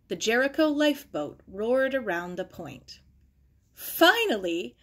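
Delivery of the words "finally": a laughing, drawn-out cry of relief; relieved laugh. A narrator's reading. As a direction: let the relief spill out with a laugh. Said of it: "Sarah laughed".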